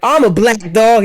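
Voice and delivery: high lisping tough-guy dog; Mike Tyson. Pretend. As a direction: channel a lisping boxer. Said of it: "Why does he talk like Mike Tyson".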